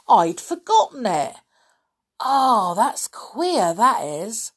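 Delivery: lightly voiced loud old man; old caretaker. A narrator's reading. Deaf caretaker remembering a noise last night, puzzled.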